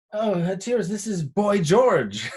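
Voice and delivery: high, drawn-out chummy introduction; put-on high voice for an introduction; imitated London guy. Voicing London man introducing a singer.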